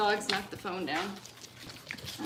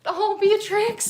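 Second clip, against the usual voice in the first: slow, louder, higher call of the name; calling the dog; 11 semitones higher, 11 dB louder, much slower than usual. Real, not acted. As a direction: call out in surprise.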